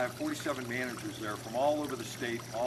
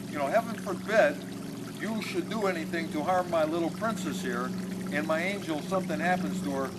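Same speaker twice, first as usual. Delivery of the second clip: lecturing father; 3 semitones higher, 3 dB louder than usual. Retold or imitated. Father lectures the young couple.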